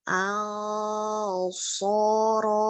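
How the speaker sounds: au soro with the nose held shut; pinching nose. Shown as a demonstration. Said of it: "udah kebagi".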